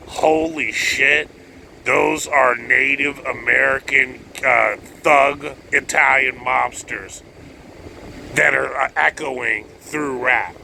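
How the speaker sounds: slow, drawn-out mock awe; mock amazement. Listener realizing in slow mock amazement. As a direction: let the realization sink in slowly. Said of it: "you'll be like".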